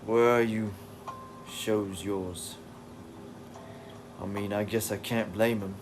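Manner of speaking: put-on English accent drifting into Australian; attempted English accent, Australian-sounding. Streamer reading comic dialogue aloud, attempted English accent. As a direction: read it in a shaky-grasp English accent that lands Australian. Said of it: "I sound Australian".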